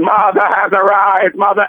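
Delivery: lightly voiced Dalek announcement; robot voice. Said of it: "there's a robotic voice going".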